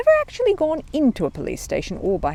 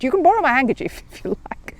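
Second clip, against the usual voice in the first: polite little bear; 6 semitones higher than usual. Acted. Paddington voiced in reading.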